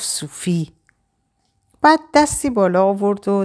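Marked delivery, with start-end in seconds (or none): 0.0-0.7 much softer, barely murmured; under the breath. Acted. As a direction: murmur the name to herself. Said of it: "زیر لب گفت". (زیر لب و آهسته)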